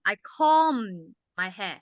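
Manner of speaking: slow, careful I comb my hair, comb drawn out; slow model sentence. Shown as a demonstration. Teacher slowly models the voiced word for the class. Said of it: "For example, comb".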